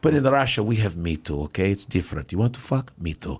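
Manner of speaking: put-on low, deadpan Russian accent; heavy Russian accent, low and dry; heavy Russian accent menace. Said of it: "He goes".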